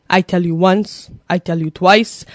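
slow, menacing count from a mad dad; mock-stern father, deliberate and measured; freaking-out father. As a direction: imitate an angry dad counting warnings, building up. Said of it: "he started freaking out".

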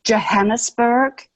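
Johannesburg in an English accent, with a J as in jam; English-accented Johannesburg, rising at the end. Shown as a demonstration. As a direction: say Johannesburg the English way, stress on HAN. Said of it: "spoken with an English accent".

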